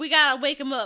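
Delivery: put-on Southern accent. Retelling what Bobby says in the movie: Bobby with a Southern accent.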